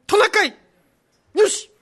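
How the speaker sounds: put-on old Santa voice. Santa repents, sets off.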